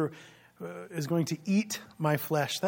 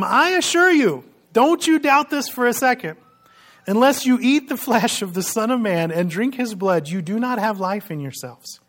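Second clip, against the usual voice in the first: louder and higher, booming proclamation of Jesus' words; fiery, emphatic scripture reading; dramatic reading; 3 semitones higher, 6 dB louder than usual. Acted. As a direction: declaim it like you're thundering it to the crowd. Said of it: "they're so much fun to read".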